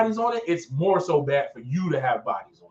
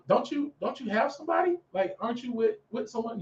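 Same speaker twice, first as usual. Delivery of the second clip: puzzled questioning; 6 semitones higher, 7 dB quieter than usual. Retold or imitated. Retells questioning a man online.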